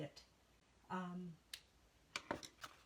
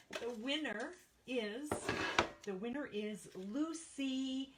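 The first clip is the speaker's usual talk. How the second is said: rising higher to reveal the winner; building announcement; 4 semitones higher than usual. Shown as a demonstration. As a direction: build suspense, then land on Lucy. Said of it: "Drum roll, please".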